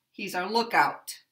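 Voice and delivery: "lookout" stressed on "look", "out" weak; compound noun stress. Shown as a demonstration. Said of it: "a compound noun".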